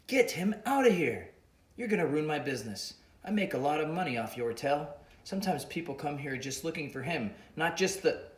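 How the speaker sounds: put-on heated African accent; angry Boga. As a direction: drive him off, protecting his business. Mister Boga angry at Xander.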